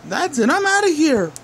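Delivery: high panicked yell. Acted. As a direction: shout it and flee. Villain flees in panic.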